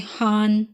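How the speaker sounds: हान with a long drawn आ and silent second h; long a in Hahn. Shown as a demonstration. Teacher demonstrating the German word Hahn. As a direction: hold the आ in हान. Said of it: "इसमें आ long pronounce हुआ है".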